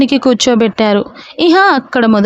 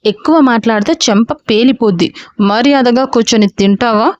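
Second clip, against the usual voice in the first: a touch of a scolding father; low, understated threat to a stubborn son; mild stern threat; 3 semitones lower than usual. Acted. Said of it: "Raghava గారి గద్దింపుకు".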